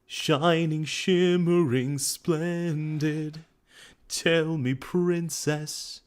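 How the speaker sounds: high, slow, grand stage singing; theatrical voice. Shown as a demonstration. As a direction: belt it like a Broadway Aladdin. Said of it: "I try to get that theatrical voice".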